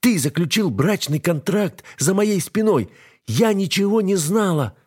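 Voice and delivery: wife crying out that she knew nothing; cracking shout. A narrator's reading. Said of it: "срывающимся голосом кричит Алиса".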